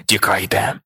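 a dull, muffled shout from far below; muffled, from deep below. A narrator's reading. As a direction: call up from deep inside the earth. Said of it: "почувся тепер уже глухо, мов із надр землі".

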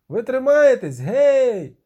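high, loud hail; calling down. A narrator's reading. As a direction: shout down to them. Dandelion calls down. (гукає вниз, голосно)

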